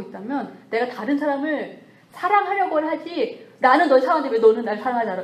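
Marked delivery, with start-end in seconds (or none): 3.6-5.2 fast, louder aggrieved whine; mock complaint. Preacher mimics someone complaining to a lover. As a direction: demand love like a hurt lover. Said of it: "이렇게 말할 자격이 없어요".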